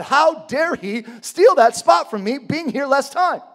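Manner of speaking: worked-up workplace grievance; indignant. Acted. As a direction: gripe that grows into a loud complaint. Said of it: "Have you ever been indignant?".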